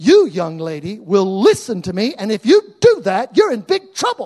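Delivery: very loud, stern voice. Father retelling how he warned his daughter: retelling a raised voice. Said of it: "I raised my voice and I said".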